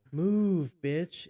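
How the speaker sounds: loud high yell; shouting. Retold or imitated. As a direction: yell it like a horn blast. Quoting horn song, shouting.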